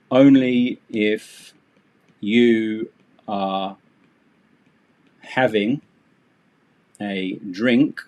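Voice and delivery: slow, stiff and over-careful phrasing; textbook voice. Shown as a demonstration. Teacher mocking a textbook, slow and stiff. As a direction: read it out like a stilted textbook. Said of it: "be a textbook".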